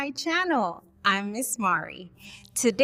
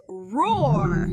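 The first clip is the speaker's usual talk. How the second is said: mild, drawn-out roar; lion roar; 3 semitones lower than usual. Shown as a demonstration. Teacher showing children what a lion says, mild roar. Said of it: "A lion says".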